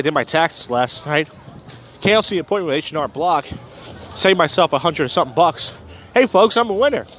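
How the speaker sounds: talking while chewing gum; words around a wad of gum. Real, not acted. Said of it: "I'm chewing gum right now".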